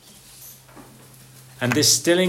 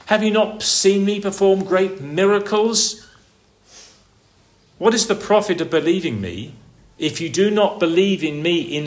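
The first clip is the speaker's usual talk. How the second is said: a hint of the Lord's challenging voice, raised; voicing the Lord; 4 semitones higher than usual. The Lord challenging his frightened disciples, raised voice.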